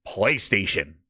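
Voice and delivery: PlayStation said low and crisply in one smooth go; perfect diction. Retold or imitated. Host imitating Satya saying PlayStation without stuttering, perfect diction. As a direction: drop low and enunciate PlayStation with ease. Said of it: "Perfect dictation".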